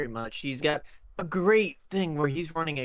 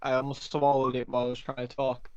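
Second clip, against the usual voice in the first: chewing while talking; mouth full. Real, not acted. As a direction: talk around a bite of food. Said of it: "I'm chewing on food".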